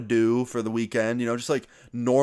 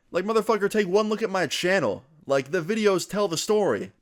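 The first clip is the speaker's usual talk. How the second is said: heated outburst; 8 semitones higher than usual. Retold or imitated. To the kid accusing him at lunch, an exasperated raised-pitch outburst.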